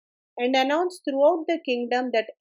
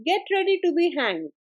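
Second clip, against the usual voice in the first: angry shout; 4 semitones higher than usual. Acted. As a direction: bark it out like a furious king. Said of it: "and shouted".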